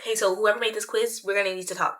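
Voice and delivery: quiet menace. Acted. Mock threat to quiz maker.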